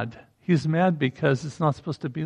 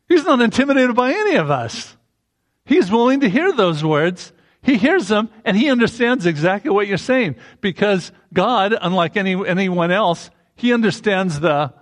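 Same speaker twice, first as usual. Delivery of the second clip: higher, louder preaching build; preaching with force; 5 semitones higher, 4 dB louder than usual. Acted. Preacher to congregation, rising to full force. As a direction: lift the congregation with rising conviction.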